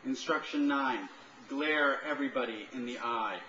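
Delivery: numbered instructions, each set apart by pauses; deliberate list reading. Acted. Writer reads eleven instructions to an audience, deliberate recital. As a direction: announce each number, then deliver the command.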